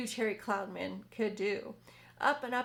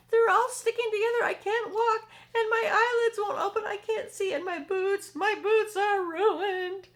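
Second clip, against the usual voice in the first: high, loud outraged complaint, slowing at the end; angry wailing centipede; 11 semitones higher, 10 dB louder than usual. Acted. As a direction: rant furiously about the ruined boots. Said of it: "The centipede screamed with anger".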